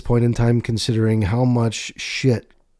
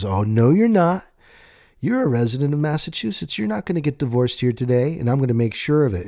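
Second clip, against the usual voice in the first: mock defiant attorney; 4 semitones higher than usual. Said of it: "She goes".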